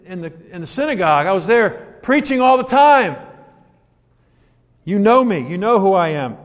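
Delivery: Jesus, indignant, pressing his questioners; impassioned preaching. Acted. Preacher voicing Jesus, rising.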